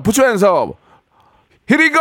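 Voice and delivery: a mock DJ throwing his voice up at the end; club DJ hype. Radio host playing a club DJ to a caller, hyped shout.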